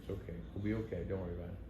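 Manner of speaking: calm him down in a soft hush; soft hush to a worried passenger; hushed reassurance. Retold or imitated. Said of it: "and I'm just going".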